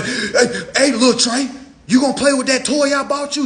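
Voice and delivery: high, loud, laughing mama coaxing her son; mock doting mother. Mother coaxing little Trey to play with toy, high and loud. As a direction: coo up at the kid like a proud mom. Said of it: "Just for you to go in".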